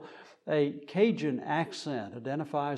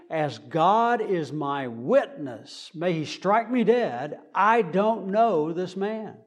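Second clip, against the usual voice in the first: louder, slow, emphatic oath swearing by God; mock oath of cursing; 3 semitones higher, 5 dB louder, slower than usual. Cornered Peter cursing at his accusers in a solemn oath. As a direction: swear it out slowly like a cornered man. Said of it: "calling down curses from heaven".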